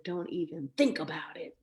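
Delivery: voiceless whispered warning; hushed mock threat, no voice; imitated whisper. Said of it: "like that".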